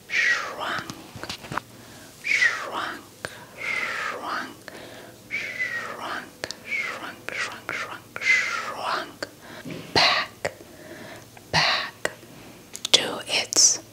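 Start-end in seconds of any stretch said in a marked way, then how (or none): none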